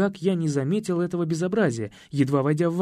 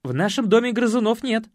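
curt; 6 semitones higher, 4 dB louder than usual. A narrator's reading. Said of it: "отрезал секретарь".

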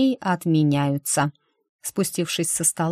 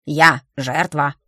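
slow plaintive; 4 dB louder, slower than usual. A narrator's reading. Sparrow complains, slow.

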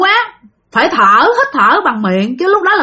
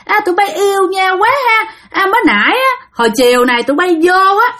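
nagging ghost; 3 semitones higher than usual. Acted. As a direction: nag and jab at the couple, pitched up. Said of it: "bà nói mà cái kiểu chì chiết". (giọng bà ma chì chiết, cao giọng)

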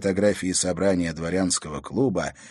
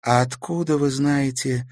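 slowly; 8 semitones higher, slower than usual. Acted. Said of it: "медленно начала она".

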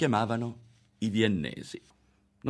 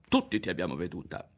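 lightly threatening, louder in the middle; a touch of a boy's threat; mild menace; 3 semitones higher, 5 dB louder than usual. Acted. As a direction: lean in and accuse her. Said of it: "e la guardò minaccioso".

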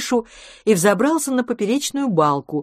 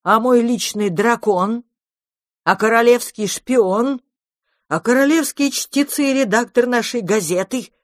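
indignant; 6 semitones higher, 4 dB louder than usual. A narrator's reading. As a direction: protest with mounting indignation. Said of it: "возмутился Кусака Хватака". (возмущённо, высоким голосом)

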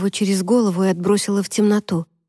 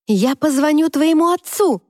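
higher shouted threat; shouting; 7 semitones higher than usual. A narrator's reading. Girl yells a threat at Travis, higher shout. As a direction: yell it at him. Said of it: "закричала я".

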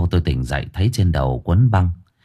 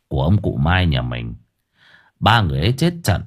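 lower, calm, grave uncle explaining; lightly voiced uncle; 5 semitones lower than usual. Uncle gravely explaining the guardian spirits to his nephew, low and calm.

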